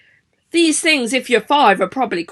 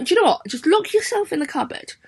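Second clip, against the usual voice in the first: fed-up teacher. Retold or imitated. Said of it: "Missus Butler doesn't seem too happy".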